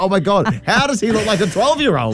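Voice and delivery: retold amazement. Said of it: "I'm like".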